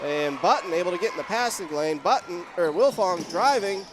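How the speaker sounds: animated call rising with the drive; live play-by-play. Real, not acted. Announcer calls Wilfong driving, animated live play-by-play. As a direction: follow the play with mounting excitement.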